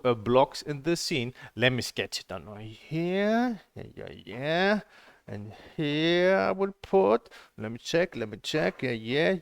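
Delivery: lightly voiced mock instructor. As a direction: drag it out like a fussy teacher. Mocking the sketching instructor.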